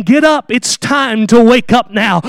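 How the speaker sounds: slow, calling "Get up, it's time to wake up now"; a father waking his daughter, slow; fatherly wake-up call. Acted. Father rousing his sleeping daughter, gentle call. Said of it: "a father talking to the daughter".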